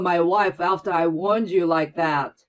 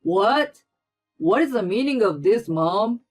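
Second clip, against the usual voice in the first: angry son; 7 dB louder than usual. A narrator's reading. Brother-in-law rebukes his mother for bullying Claire, angry. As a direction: confront his mother hard.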